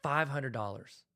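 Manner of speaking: slow, weighing the price; slow musing. Shown as a demonstration. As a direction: mull the number over slowly. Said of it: "you're like".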